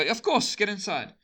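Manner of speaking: high-pitched, ready welcome; eager reassurance. Acted. Homeowner letting in a chased friend, eager reassurance.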